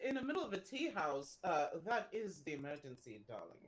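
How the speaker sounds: clutch pearls in dismay; a lightly voiced aristocrat appalled at the fuss over cookies; aghast lady. The speaker scolds in character.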